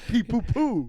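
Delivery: lightly squeaked peeps; a hint of chick chirping; peeping baby chick. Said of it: "he would say it like that".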